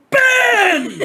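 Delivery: loud high laughing call of a name; retold shout. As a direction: yell the name as she did. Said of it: "Maven, like, went".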